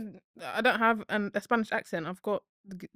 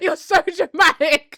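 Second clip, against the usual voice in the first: laughing; 7 semitones higher, 7 dB louder, slower than usual. Real, not acted. Teasing friend, laughing.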